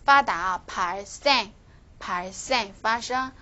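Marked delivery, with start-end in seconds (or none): 0.7-2.7 "생" in "발 생" said with a tense, tight s; tensed consonant. Shown as a demonstration. Teacher demonstrating what follows 发, "생" in "발 생" tensed. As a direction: model "발 생" with a tensed "생". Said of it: "发后面的也是要变成这个紧音的".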